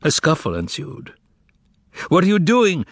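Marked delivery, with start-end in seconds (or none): 2.1-2.8 high, agonized cry; agonized scream. A narrator's reading. The master stopping Margarita's attack, screaming in agony. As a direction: cry out in horror. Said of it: "screamed the master in agony".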